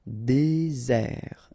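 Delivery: "Désert" in two stretched syllables; drawn out. Shown as a demonstration. French teacher showing learners the sounds, "Désert" drawn out.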